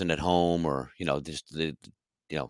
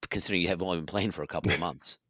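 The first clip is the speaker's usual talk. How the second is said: dry, quick, softer sarcastic put-down; sarcastic jab; 7 dB quieter, faster than usual. Retold or imitated. Musician imagining a sarcastic comeback to an arrogant drummer, dry and quick. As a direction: slip the insult in fast and dry. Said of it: "a sarcastic guy".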